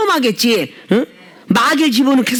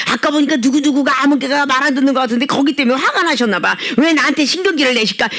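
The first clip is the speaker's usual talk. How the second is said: grumbling; 3 semitones higher than usual. Retold or imitated. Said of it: "이러면서 말을 막".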